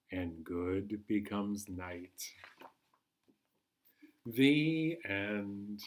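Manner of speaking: calm bedtime read-aloud, long pauses between lines; story narration. Acted. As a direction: lull the children toward sleep. Reads picture book aloud.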